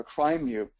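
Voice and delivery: "Crimu", with the r straight after the C; mistaken pronunciation. Shown as a demonstration. Speaker trying a name they always mispronounce, said "Crimu". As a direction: say Cymru as "Crimu". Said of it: "I always pronounce this".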